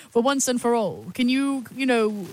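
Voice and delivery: hammed-up British interviewer; overdone British accent. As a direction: lay the British accent on thick. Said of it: "I'm really overdoing it there".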